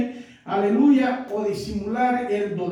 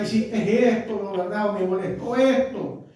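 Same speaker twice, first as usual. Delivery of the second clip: gentle example; 2 semitones lower than usual. Shown as a demonstration.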